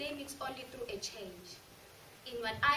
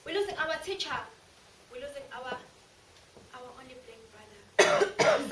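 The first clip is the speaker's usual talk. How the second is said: much louder and higher, crying out in grief; loud anguished lament; wailing family lament; 5 semitones higher, 11 dB louder than usual. Retold or imitated. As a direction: cry it out like a grieving family. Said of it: "his entire family through the flame crying".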